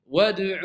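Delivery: WAD'U with a rounded vowel wrongly added to D; mistaken damma. Shown as a demonstration. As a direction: colour the D of Wad'u with the following U. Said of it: "Et c'est une erreur".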